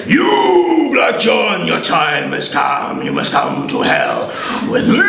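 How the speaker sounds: booming call then slow doom; a hint of a thundering devil; devil's summons. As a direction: proclaim his fate like a devil. Beelzebub arrives in the forge.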